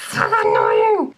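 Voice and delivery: very low, loud, slow growl of annoyance; exasperated groan. Real, not acted. Ranting to viewers, low loud exasperation. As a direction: drag it out in disgust. Ranting about grammar errors.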